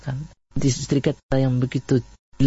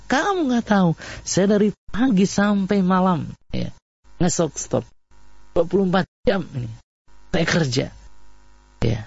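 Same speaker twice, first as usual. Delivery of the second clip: higher-pitched mock scolding, lightly voiced wife; 5 semitones higher than usual. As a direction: play the wife ranting at her husband, half-acted. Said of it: "sampai nunjuk-nunjuk ke aja suami".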